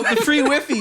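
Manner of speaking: "Wi-Fi" said as "wiffy"; "Wi-Fi" with short first vowel, rhyming with "iffy"; mispronounced Wi-Fi. Retold or imitated. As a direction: read "Wi-Fi" as "WIFF-ee". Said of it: "Sir, did you mean free Wi-Fi?".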